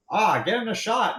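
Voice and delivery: high-pitched, hammed-up call; mock yelling. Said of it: "this guy's yelling in common".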